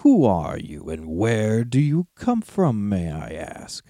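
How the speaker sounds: growling dragon guarding treasure. Acted. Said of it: "said the dragon".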